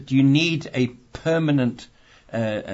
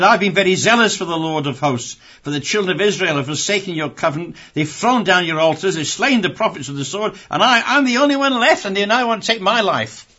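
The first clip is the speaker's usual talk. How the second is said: self-pitying Elijah; 6 semitones higher, 4 dB louder than usual. Acted.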